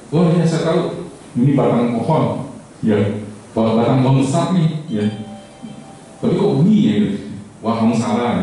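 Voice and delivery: a blind man proudly shouting his find. Acted. Blind man touching the elephant's leg, excited cry. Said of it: "dia teriak".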